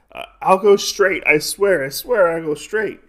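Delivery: mock pleading, high and loud; desperate promise, acted. Retold man begs for his life.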